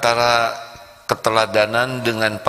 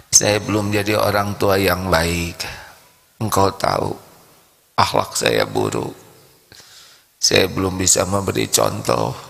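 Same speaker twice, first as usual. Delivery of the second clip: humble prayer; 3 semitones lower than usual. Acted. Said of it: "Sambil meluk begini".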